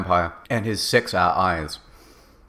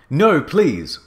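higher, pleading exclamation; begging; 7 semitones higher, 4 dB louder than usual. A narrator's reading. Girl begging the villain, pleading. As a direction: plead with a lift in pitch. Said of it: "I begged".

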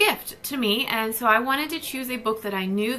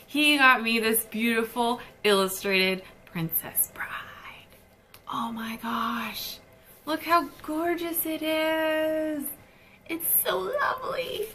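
hushed, breathless whisper of delight; awed whisper; 3 semitones higher than usual. Real, not acted. Showing off the husband's gift book, awed whisper. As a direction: whisper it like you can't believe how beautiful it is.

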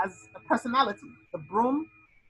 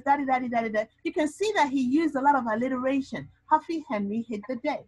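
lightly voiced student essay, a bit higher; mock student essay; 3 semitones higher than usual. Teacher modelling the essay voice for students, a touch higher. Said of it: "all you're gonna write is".

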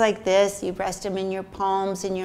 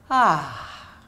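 sighed ah; 2 semitones lower, 3 dB louder than usual. Shown as a demonstration.

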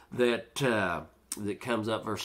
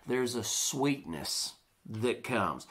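soft reassuring; 3 semitones lower, 5 dB quieter, slower than usual. Real, not acted. Contrasting bitterness with sweetness.

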